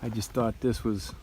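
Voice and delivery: talking while eating crackers; chewing crackers between words; mouth full of crackers. Real, not acted. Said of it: "I'm sorry, I'm eating crackers".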